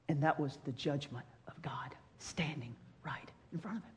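hushed, breathy whisper; preacher whispering the judgment of God to the congregation. Real, not acted. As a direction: drop to a whisper for the solemn point. Solemn point about God's judgment.

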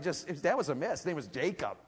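ordinary talk

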